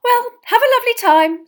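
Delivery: very high, loud farewell; huffy mother's parting shout; cross send-off. Acted. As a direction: call it out still angry. Glowering mother sees sons off.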